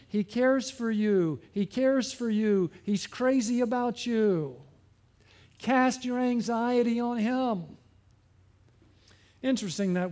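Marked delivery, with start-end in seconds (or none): 0.1-7.6 slow, tender reassurance; Holy Spirit's gentle voice. Retold or imitated. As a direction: speak slowly as a comforting Spirit. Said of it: "what is the Holy Spirit saying?".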